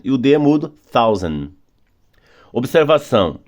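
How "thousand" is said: "thousand" with the tongue between the teeth and a silent d; careful model "thousand", th sound, no d at the end. Shown as a demonstration. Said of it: "põe a língua entre os dentes".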